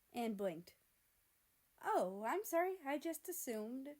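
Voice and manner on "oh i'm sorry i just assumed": awkward waitress. Acted.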